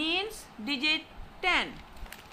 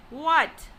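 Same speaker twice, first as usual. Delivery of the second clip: "what" louder, as a question; second-tone example on "what"; 5 dB louder than usual. Shown as a demonstration. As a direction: ask "what" with stressed pitch. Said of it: "pronounce like a question".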